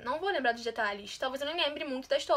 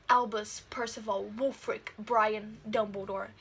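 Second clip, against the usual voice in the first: slow solemn recital; 4 semitones lower, slower than usual. Real, not acted. Reciting full name solemnly.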